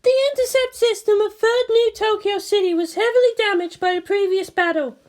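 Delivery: high woman's voice, briefing; voiced commanding officer. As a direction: report damage like an operations chief. Misato voiced by narrator.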